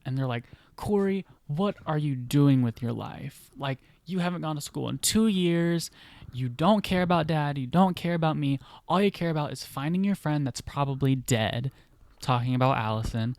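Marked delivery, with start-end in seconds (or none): 0.8-11.7 higher-pitched retold heated accusation; heated argument. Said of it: "get into a heated argument".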